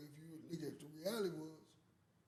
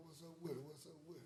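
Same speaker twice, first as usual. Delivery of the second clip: soft, low and close to the mic; low sexy voice; 8 dB quieter, much faster than usual. Real, not acted. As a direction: murmur it smooth and low. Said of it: "Why you got your sexy voice on".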